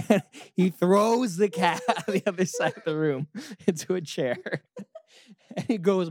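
usual speaking voice

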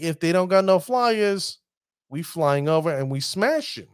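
lightly put-on New York accent. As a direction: slip into a tough-talking New York accent. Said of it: "bring in my New York accent".

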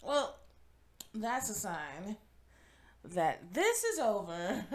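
drowsy, drifting voice; half-asleep, trailing words; nodding off. Real, not acted. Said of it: "I'm falling asleep".

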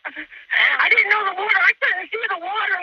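panicked woman trapped in rising water; frightened. Real, not acted. Caller trapped in flooded car, real fear. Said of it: "I'm scared".

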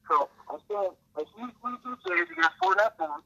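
muffled bad phone line; underwater. Real, not acted. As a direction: caller sounding like he's underwater. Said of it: "it sounds like you're underwater".

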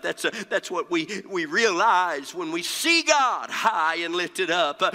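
impassioned pulpit preaching with punched key words. Real, not acted. Preacher telling the congregation of Isaiah's vision, impassioned preaching. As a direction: preach it hard, phrase by phrase.

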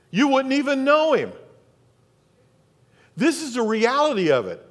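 high-energy sermon delivery, emphatic phrases; impassioned preaching. Real, not acted. Pastor telling the congregation they need God's grace, impassioned preaching. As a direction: preach it with rising conviction.

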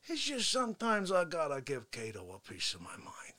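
hushed unvoiced whisper to the viewers; whispered confidence to the camera; whispering aside. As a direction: lean in and whisper the secret.

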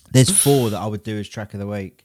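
choking, coughing through words. Real, not acted. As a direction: speak while choking on a drink. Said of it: "Sorry, I'm choking to death".

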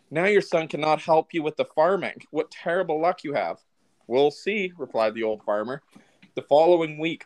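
calm storytelling narrator voice; fireside storytelling. Acted. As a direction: tell it like a fireside tale. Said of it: "I had my storytelling voice on that one".

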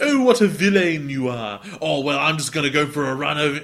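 put-on botched gangster accent, Australian creeping in; gangster voice slipping into Australian. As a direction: attempt a Chicago gangster, land in Australian. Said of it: "Oh, that's Australian".

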